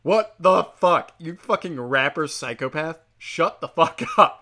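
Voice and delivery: outraged viewer yelling at the rapper on TV; mock outburst. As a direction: yell it out, dragged, cracking into a laugh. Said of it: "And you're like".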